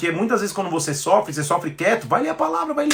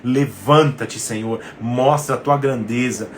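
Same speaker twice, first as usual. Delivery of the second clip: slow declaration; 5 semitones lower, slower than usual. Shown as a demonstration. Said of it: "de abrir os nossos lábios e dizer".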